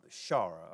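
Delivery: Shara said slowly and deliberately, each syllable clear; careful Shara. Shown as a demonstration. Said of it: "My southern accent wants to say Shara every time".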